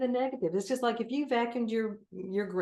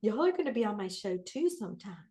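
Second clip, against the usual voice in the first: Southern accent; 2 semitones higher than usual. Real, not acted. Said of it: "There's my Southern accent".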